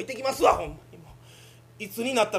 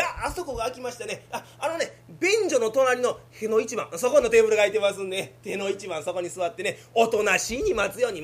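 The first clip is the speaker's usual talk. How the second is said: officious clerk; 3 semitones higher, 5 dB louder than usual. Acted. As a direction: talk down like a smug civil servant. Voices the official.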